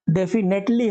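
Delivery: "definitely" slowly sounded out with a full "net"; spelling-style pronunciation. Shown as a demonstration. Teacher repeats how we read "definitely" for spelling, slow sounded-out pronunciation. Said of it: "पढ़ने के लिए हम ये पढ़ते हैं".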